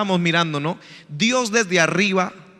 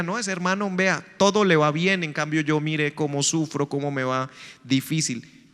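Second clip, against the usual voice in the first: mock self-pitying complaint; 4 semitones lower, 6 dB quieter than usual. Creyente envidioso se queja.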